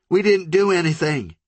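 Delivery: high, trembling plea with DIDN'T pressed; shaking denial. Acted. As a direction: insist in terror, leaning on didn't. Country begins to shake.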